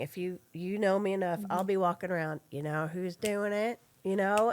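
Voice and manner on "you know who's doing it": slow, singsong little refrain; a habitual sung-out catchphrase; vocal stimming. Shown as a demonstration. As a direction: croon it to yourself while walking. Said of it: "called vocal stimming".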